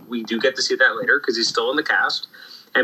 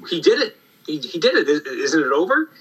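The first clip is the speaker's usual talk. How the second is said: high, gasping "He did it"; kid's excitement; 4 semitones higher than usual. Retold or imitated. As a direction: play the thrilled kid reader. Kid reader reacting to the reveal.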